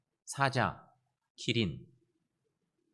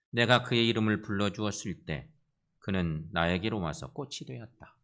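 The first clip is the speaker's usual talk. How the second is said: measured poetry reading, phrase by phrase; poem recitation; 3 semitones lower than usual. Acted. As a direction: recite it deliberately with pauses. (차분한 시 낭송)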